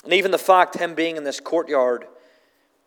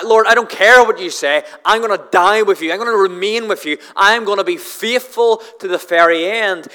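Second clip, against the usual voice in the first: louder, insistent retelling of Peter's boast; a touch of defiant bravado, louder; overconfident vow; 2 semitones higher, 5 dB louder than usual. Retold or imitated. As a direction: bluster it like a proud disciple who won't be told.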